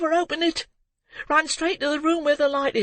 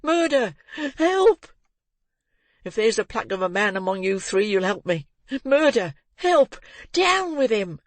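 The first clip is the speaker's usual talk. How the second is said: put-on frantic boy shouting; 7 semitones higher than usual. A narrator's reading. Boy calling the men to seize the murderer, frantic high shouts. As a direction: scream for help, rising to a frenzy. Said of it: "becoming more and more excited as he spoke".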